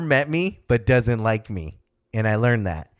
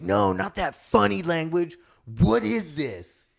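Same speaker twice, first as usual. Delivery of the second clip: put-on whiny kid; 7 semitones higher than usual. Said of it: "and I'd be like".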